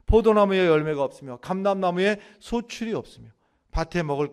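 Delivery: loud, resolute Bible recitation; scripture declamation. Acted. Preacher recites Habakkuk's confession to the congregation, loud declamation.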